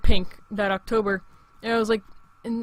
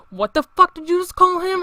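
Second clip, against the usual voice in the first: friends joining in; 9 semitones higher, 6 dB louder than usual. Retold or imitated. Friends backing up, acted quote.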